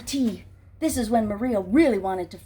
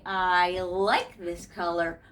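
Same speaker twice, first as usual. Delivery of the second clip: pleased gentleman; 3 semitones lower, slower than usual. Acted. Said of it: "And he said".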